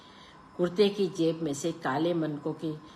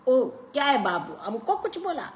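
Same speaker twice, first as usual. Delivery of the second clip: high, amused, laughing taunt; laughing Pathan; 10 semitones higher, 4 dB louder than usual. A narrator's reading. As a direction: laugh it off, mocking.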